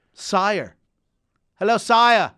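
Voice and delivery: lightly put-on English accent; a touch of hammed-up English accent; mock English accent. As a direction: hail someone in a playful English accent. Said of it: "The English accent, by the way, is needed".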